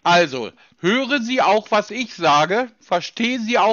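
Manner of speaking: spelled out slowly for a foreigner; slow each word down so it lands; slow and clear. Shown as a demonstration. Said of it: "Ja, nochmal".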